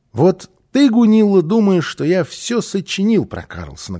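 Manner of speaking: put-on a boy getting worked up; insistent child. A narrator's reading. Малыш argues with Гунилла. (возмущённо, громче)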